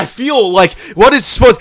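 mock screaming that it burns; hammed-up burning yell. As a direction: overplay the pain like a brat in church. Continues the fake agony.

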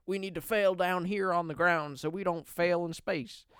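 lightly put-on astronaut accent; a touch of an invented accent for a film hero; Neil Armstrong. Astronaut vows in a movie trailer, lightly put-on accent. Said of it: "that's my Neil Armstrong voice".

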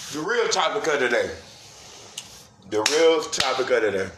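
talking while chewing; smacking mouth between words; mouth full. Real, not acted. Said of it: "smacking in my ear".

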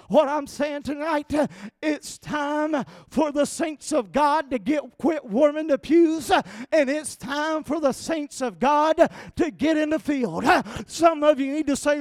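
loud, rising Southern preacher's shout; preaching at full force. Real, not acted. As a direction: shout the harvest line to the pews. Preaching climax.

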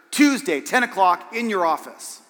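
lightly voiced cool-guy swagger, punchy start; mildly mocking impression, hitting the first word hard; a hint of a sitcom cool guy setting an appointment; Fonzie. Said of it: "Like he was Fonzie or something".

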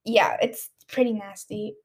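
talking while chewing gum. Real, not acted. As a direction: gum in the mouth. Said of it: "I have gum in my mouth too".

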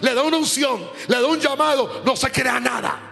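impassioned preaching. Real, not acted. Preacher warning ministers not to charge anyone, impassioned exhortation. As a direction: press each warning home in a driving list. Exhorts congregation against profiting from gifts.

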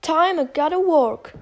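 high, loud worker's call; Jacky voice line. Retold or imitated. Imitating Jacky's line for viewers, high and loud. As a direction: call out like a tough construction worker.

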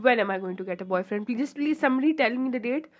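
fast, pleading late-night whine; pleading mock whine. To best friend at two AM, fast mock begging. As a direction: beg the universe for a date, quickly. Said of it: "I'm like".

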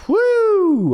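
sudden high loud whoo; high whoop. Real, not acted. Host whooping mockingly about women chatting at a table. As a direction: let out a teasing hoot.

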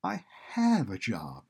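slow, defiant insistence; a tinge of anger, drawn out. A narrator's reading. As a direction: stand your ground, stretching the words. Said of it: "she said defiantly".

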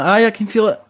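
high, strained squeak of mock pain; pained reply. Patient answering the chiropractor while he digs into a sore neck, high strained mock pain. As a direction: squeak it out like it hurts while he presses.

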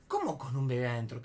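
puzzled question, far below the frantic voice; incredulidad contenida. Retold or imitated. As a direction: ask it back, not understanding. Él repite sin entender. (pregunta desconcertada, sin gritar)

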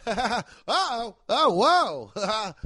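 high, laughing whoa ha ha; mock overwhelmed laughing whoa. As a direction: cackle in shock at the blast. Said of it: "And I'd be up there like".

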